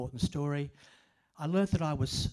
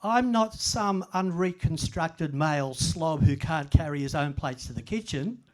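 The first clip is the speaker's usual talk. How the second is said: imagined protest; 4 dB louder than usual. Retold or imitated. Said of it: "I wanted to say".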